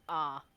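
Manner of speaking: one low, loud, unexcited "ah"; a lone deadpan "ah"; single "ah". Pretend. Imagining the calm Druid's reaction, single "ah". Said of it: "Just one".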